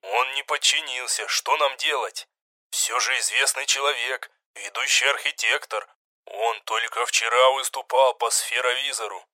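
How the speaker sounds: like voices over an intercepted channel; radio chatter. A narrator's reading. A soldier reports over the radio channel, muffled. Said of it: "Это их канал переговоров".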